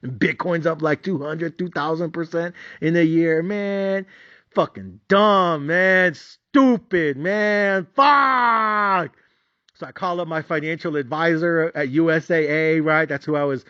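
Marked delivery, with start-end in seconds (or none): 3.4-9.2 frustrated grumbling. Retold or imitated. Frustrated outburst.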